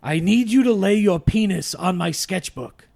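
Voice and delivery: hammy Pacino impression. Shown as a demonstration. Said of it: "read them out loud in the voice".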